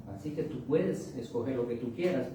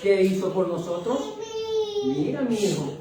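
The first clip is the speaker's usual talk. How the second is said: lightly voiced heavenly Father, raised pitch; an emphatic appeal, a little louder and higher; God; 5 semitones higher, 4 dB louder than usual. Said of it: "Dios de arriba dice". (imitando levemente un llamado divino, enfático)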